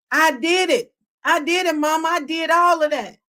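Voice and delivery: high, insistent mock admission; acted confession. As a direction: play a child blurting it out to a parent. Imagined child confessing to parent.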